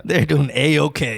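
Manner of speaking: slow put-on Arabic accent. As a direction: drag it out in a mock Arabic accent. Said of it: "what happened to your accent?".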